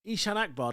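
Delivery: Ishan Akbar with English vowels, EE-shan AK-bar; anglicized name. Shown as a demonstration. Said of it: "It's just accented differently".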